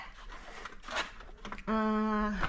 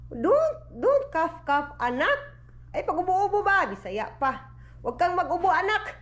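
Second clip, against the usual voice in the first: higher sing-song voice coaxing the little one; 6 semitones higher than usual. Real, not acted. Mother telling her coughing child to stop, higher sing-song.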